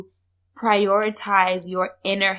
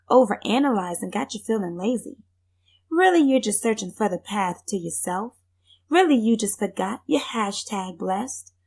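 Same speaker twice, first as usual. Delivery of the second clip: poem recitation. Acted. Reciting her own poem.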